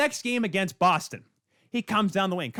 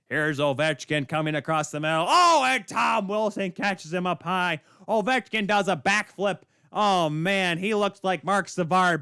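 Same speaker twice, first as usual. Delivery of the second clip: lightly put-on play-by-play call; Jack Edwards. Host imagining the announcer calling the hit, mock play-by-play. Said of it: "He, Jack Edwards, on the call".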